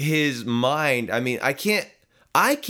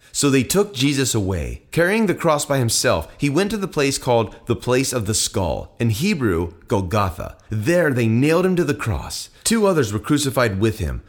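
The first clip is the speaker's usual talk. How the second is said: steady, slightly louder Bible reading; scripture reading; 4 dB louder than usual. Acted. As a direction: read the passage out to the congregation. Reads the scripture passage aloud.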